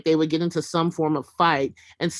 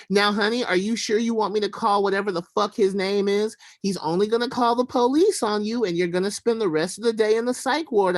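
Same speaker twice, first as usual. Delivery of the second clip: light mock-soothing Southern mammy; a hint of a cooing mammy, higher; 4 semitones higher than usual. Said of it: "best mammy voice".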